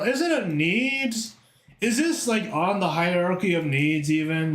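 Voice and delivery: high, incredulous teasing question; mock incredulous. Teasing a chatter about gambling, high and incredulous. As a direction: raise it up in playful disbelief.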